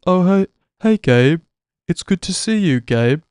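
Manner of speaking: high, loud put-on barista greeting; Harry's voice. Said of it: "who talked like this".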